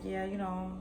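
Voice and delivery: casual, easygoing retold chat; playing it cool. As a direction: act like nothing is up. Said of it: "So I'm still playing it cool".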